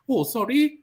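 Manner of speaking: lightly voiced prim apology, faking deafness; mock polite English person. Host mimics English people faking deafness, a light mock-polite tone. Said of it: "that is Oyibo people for you".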